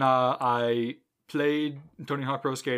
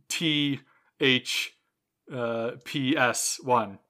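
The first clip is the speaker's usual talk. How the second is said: letters spelled out very slowly, one by one; halting, long pause between each letter; taking your time; much slower than usual. Real, not acted. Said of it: "you just gotta take your time through that".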